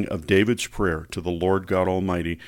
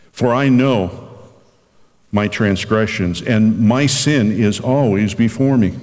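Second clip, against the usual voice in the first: slow, solemn reading of the psalm; scripture reading. Acted. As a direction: read it like a prayer, unhurried. Pastor reads Psalm fifty-one.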